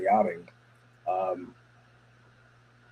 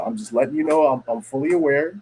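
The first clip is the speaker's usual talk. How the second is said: higher-pitched, explaining retold reply; clarify it in a lifted, non-threatening voice; imitating someone smoothing things over; placating clarification; 5 semitones higher than usual. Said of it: "Listen, dog".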